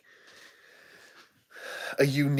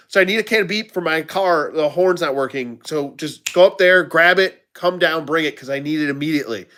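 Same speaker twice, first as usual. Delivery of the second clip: fast and efficient; 3 semitones higher than usual. Retold or imitated. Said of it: "I said it so fast and so efficiently".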